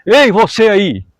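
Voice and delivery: imitar um chamado de longe, arrastado; mock call-out, drawn out slowly; chamado imitado. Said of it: "Ela não gritava assim". (chamado imitado, arrastado)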